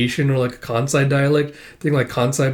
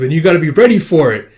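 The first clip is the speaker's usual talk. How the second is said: hyped encouragement; 4 semitones higher, 7 dB louder, faster than usual. Acted.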